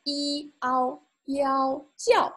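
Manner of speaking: "一, ao, yao" held level, then 叫 high and falling; compound final demonstration. Shown as a demonstration. Teacher breaking down the compound final for learners, careful sounding-out. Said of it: "Note the compound final".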